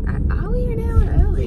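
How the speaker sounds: sudden high, fast double-take; surprised. Real, not acted. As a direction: caught off guard, asking quickly. Surprised to learn they're early.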